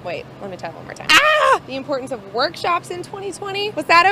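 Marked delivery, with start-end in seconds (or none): 1.1-1.6 frustrated yelp. Real, not acted. Flubbed take, frustrated cry.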